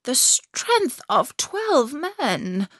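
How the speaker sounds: slow musing wise woman; Finland woman voice. Acted. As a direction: turn the words over slowly. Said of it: "said the Finland woman".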